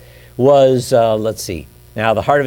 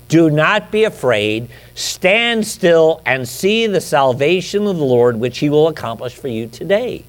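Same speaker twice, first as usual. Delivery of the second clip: calm assurance; 4 semitones higher than usual. Acted. Moses calming the people.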